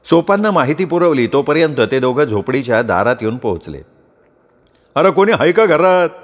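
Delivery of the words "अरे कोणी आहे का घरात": louder call at the hut door. Acted. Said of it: "सोपाननं आवाज दिला". (झोपडीच्या दारात हाक मारणे)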